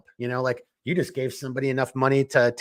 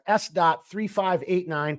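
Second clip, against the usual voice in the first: slow dictation; 4 semitones higher, slower than usual. Shown as a demonstration. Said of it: "S as in Sierra".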